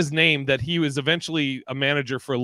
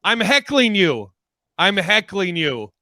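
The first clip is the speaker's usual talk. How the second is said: slow, higher, deliberate heckle; slow deadpan; 5 semitones higher, 3 dB louder, slower than usual. Retold or imitated. Heckler calmly explains himself, slow and deliberate. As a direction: spell it out slowly to the angry comic. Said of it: "and then finally Mike goes".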